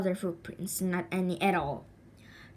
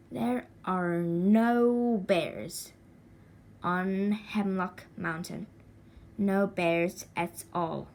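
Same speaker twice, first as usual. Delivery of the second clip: mother's words; slower than usual. Acted. Jonathan repeating his mother's words, slow and steady. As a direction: say it slowly like a mother reassuring. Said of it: "the same words as his mother's".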